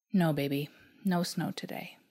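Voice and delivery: put-on hushed, breathy whisper to the little boy. Mother whispering to her son, holding back tears. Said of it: "I whispered".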